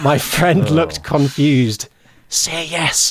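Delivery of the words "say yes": words spoken in a hiss. Storyteller recounting telling a friend what to answer, retelling a hiss. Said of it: "I hissed".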